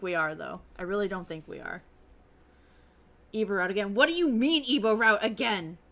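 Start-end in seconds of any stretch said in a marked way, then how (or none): 3.9-5.8 disbelief. Real, not acted. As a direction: repeat it back in disbelief. Disbelief at game text.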